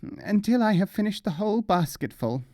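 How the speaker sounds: high, strained gasp from a burning mouth. Acted. Mullah gasps to the hillman, high and strained. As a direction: gasp it out, throat on fire. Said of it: "gasped the mullah".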